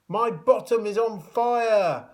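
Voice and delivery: high, loud and drawn out in panic; panicked. A narrator's reading. Tom on the hot banister crying out in panic. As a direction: wail it slowly, alarmed. Tom sliding, trousers burning.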